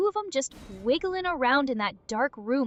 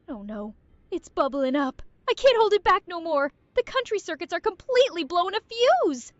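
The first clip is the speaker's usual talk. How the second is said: louder, higher gagging panic; building nausea panic; 4 semitones higher, 4 dB louder than usual. Acted. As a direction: work up to being sick. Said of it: "overload on barfing at the end".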